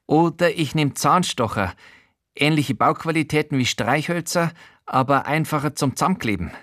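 high odd man's voice, eager; Showalter's voice. Acted.

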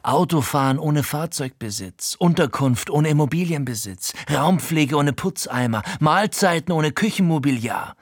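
Frankie, höher und immer drängender aufzählend; eindringlicher. Acted. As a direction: steigere die Aufzählung wie ein Verkäufer in Rage. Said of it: "Frankies Tonfall wird eindringlicher". (Frankie redet sich vor dem Erzähler eindringlich in Rage)

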